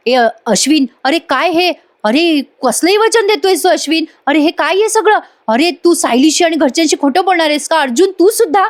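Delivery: upset protest. Retold or imitated. Priya scolds Ashwin and Arjun.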